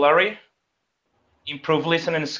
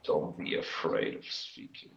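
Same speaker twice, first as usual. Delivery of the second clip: something in mouth; 11 semitones lower, 16 dB quieter than usual. Real, not acted. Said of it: "You have a pencil in your mouth?".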